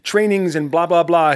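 mock fed-up rant, slightly slow; imitating Tim Grover. Host imitating coach Tim Grover fed up with new-year hype. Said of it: "This is the way Tim Grover talks".

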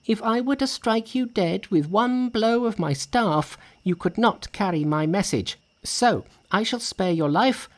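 high-pitched indignant monkey; very angry. A narrator's reading. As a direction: rebuke the braggart in a high voice. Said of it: "very angry".

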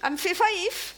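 Fife accent. Shown as a demonstration. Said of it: "work a wee bit on your Fife accent".

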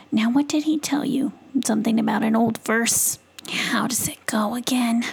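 a hint of a doubting mama possum. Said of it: "in her possum voice".

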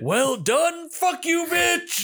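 high-pitched, jeering mock outburst; squealed mock congratulations turning to insult. Mock cheer and insult in banter.

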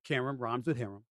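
"Qerim" said to rhyme with "harem"; Qerim rhyming with harem. Shown as a demonstration. Host correcting co-host's name, "Qerim" rhyming with "harem". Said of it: "That's what she wants me to say".

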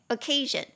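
occasion with the stress on CA; oc-CA-sion, teacher demonstrating the stress in occasion; stress on second syllable. Shown as a demonstration. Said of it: "重音节在第二音节".

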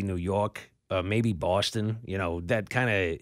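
mixed New York and Boston accent. Shown as a demonstration. Host attempting a Northern accent, New York-Boston mix. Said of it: "almost a bizarre mix between the two".

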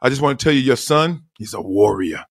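imitating a Moroccan soccer coach; lightly put-on Moroccan accent, earnest coach; a hint of a Moroccan coach's accent. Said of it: "this is how he sounded".

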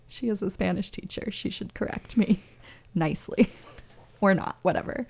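laughing through the words; amused, laughing. Real, not acted. Host joking to a Spanish-teacher listener about corrections, laughing. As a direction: let small laughs break up the sentence.

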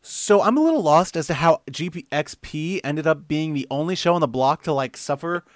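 lightly put-on listener voice with swooping tune; Colt Burr. Co-host reading a listener's question, light impression. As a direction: read it out as a mild impersonation of a confused fan. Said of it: "I'll do my real Colt Burr impression".

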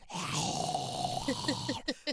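breathy rising zombie moan; zombie groan. Shown as a demonstration. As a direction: rasp out an undead groan. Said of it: "my zombie sounds good".

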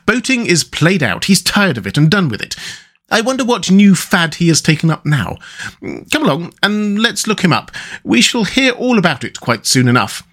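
lively storybook character dialogue; knowing rat. Acted. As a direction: chat knowingly about a friend's fads. Rat explains Toad's new fad.

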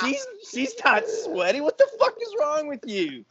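high-pitched, squealed mock disbelief; incredulous accusation. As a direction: act out baffled reproach, voice way up. Retold incredulous accusation of friend.

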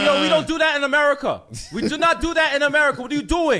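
high-pitched comic pleading; mock alarmed protest. American tourist protesting to knife-wielding Algerians, mock high-pitched alarm. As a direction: object in a high, panicky storytelling voice.

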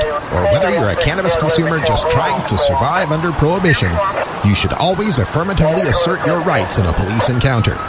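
low, measured announcer voice; PSA announcer read. Acted. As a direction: read it like a public service spot. Public service announcement read.

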